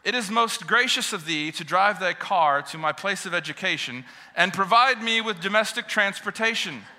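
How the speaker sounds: hammed-up, stately Old English address; mock-formal children. Girls greeting their father at the bus stop, mock-formal. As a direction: play daughters addressing Father with exaggerated ceremony. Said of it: "with loving looks in their fi-, their faces, they said".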